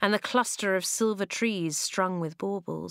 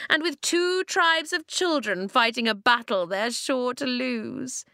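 higher-pitched gloating villainess; scornful Ice Queen, pitched up; sniggering taunt; 5 semitones higher than usual. A narrator's reading. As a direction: taunt them in a raised voice. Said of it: "she sniggered".

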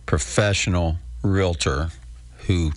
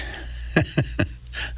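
breathy silent laugh; 6 semitones higher, 5 dB quieter than usual. Real, not acted. Laughs at his own joke.

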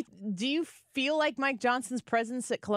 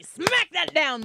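excited cheer; 5 semitones higher, 4 dB louder, slower than usual. Real, not acted. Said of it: "cheering on the speaker".

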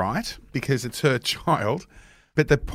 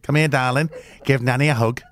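calling nanny; 2 semitones higher than usual. Retold or imitated. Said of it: "imitating grandma".

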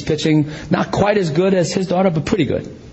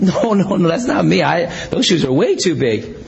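alarmed refusal; 4 semitones higher than usual. Retold or imitated. Voices Joshua protesting God's call.

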